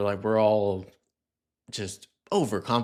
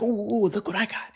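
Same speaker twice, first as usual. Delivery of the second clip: much higher, teasing voice to a dog; playful dog talk; 8 semitones higher than usual. Retold or imitated. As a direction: tease the dog in a squeaky high voice. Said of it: "you're like".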